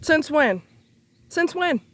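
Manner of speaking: sharp high angry repeat. Real, not acted. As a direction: fire the question back angrily. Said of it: "I'm cussing 'cause I'm angry".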